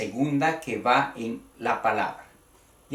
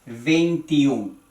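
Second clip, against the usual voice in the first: veintiún sounded out, landing on the ú; teacher's careful vein-ti-ÚN for veintiún; stress on second vowel. Shown as a demonstration. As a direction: stress the last syllable of veintiún. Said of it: "en la segunda".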